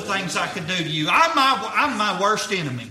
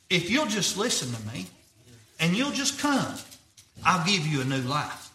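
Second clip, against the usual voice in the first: softened, tender voice of Jesus; lightly voiced, quiet and tender appeal; gentle retold invitation; 3 semitones lower, 6 dB quieter than usual. Voicing Jesus's tender call to him.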